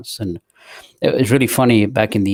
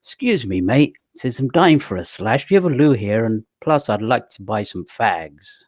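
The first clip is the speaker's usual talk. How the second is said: Cockney slang. Retold or imitated. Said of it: "just to give you some Cockney".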